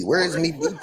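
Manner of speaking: laughing pirate-ish Irish brogue; sing-song Irish "Where is me booty"; mock Irish accent. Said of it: "What goes with Irish?".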